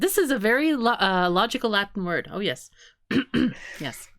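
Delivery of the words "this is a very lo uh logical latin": loud, laughing mock agreement. Real, not acted. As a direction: laugh while pretending it makes sense. Mock praise of the joke.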